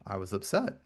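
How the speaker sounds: soft, subdued retold admission; very quiet. The guy answers his friend's question, very quiet. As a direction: drop the volume for a quiet admission. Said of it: "he says it very quiet".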